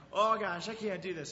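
mock panicked kid, loud "Oh gosh"; a frightened kid at the edge, voiced lightly; scared kid. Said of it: "Tears start welling up".

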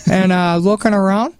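put-on a light, upbeat Minnesota accent with the folksy lilt. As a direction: play a cheerful Minnesotan telling a lake tale, in a lightly put-on Minnesota accent.

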